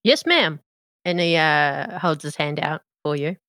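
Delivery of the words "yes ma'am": Mater voice. Acted. Mater answering politely.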